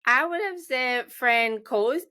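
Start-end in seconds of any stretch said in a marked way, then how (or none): 1.1-2.0 Francois misread as "fran-koyce", hard k; mistaken pronunciation. Shown as a demonstration. Host guesses guest's surname, halting mispronunciation. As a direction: sound out Francois slowly as "fran-koyce", unsure. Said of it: "How would you have said it?".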